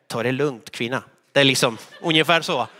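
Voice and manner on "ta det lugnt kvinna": mock rebuke. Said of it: "jag ska vända mig och säga".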